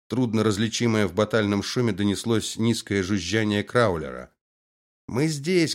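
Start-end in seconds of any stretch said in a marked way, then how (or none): 5.1-5.7 calling out. Acted. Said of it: "крикнула Алла".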